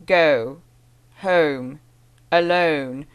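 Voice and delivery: drawn-out British vowels on single practice words; mock-careful British drill words, slow; British accent drill. Shown as a demonstration. Vlogger mocking the accent book's word drills, British accent. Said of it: "I'd rather not be saying".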